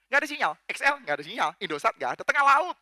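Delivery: quick, animated mock complaint, rising loud at the end; mocking taunt. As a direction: scoff at rival gods with no signal. Acted taunt of sailors' gods.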